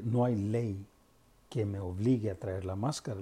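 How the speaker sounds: enojado. Retold or imitated. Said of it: "porque ya me enojé yo todo".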